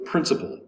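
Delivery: "principle" stressed on PRIN; first-syllable stress. Shown as a demonstration. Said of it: "has the accent over the first syllable".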